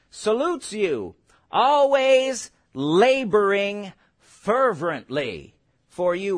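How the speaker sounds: slow, drawn-out reading of the verse; scripture reading. Acted. Preacher reading the verse to the congregation, slow and drawn out. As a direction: stretch each word of the verse.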